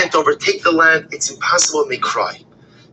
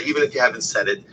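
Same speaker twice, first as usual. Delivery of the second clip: ordinary talk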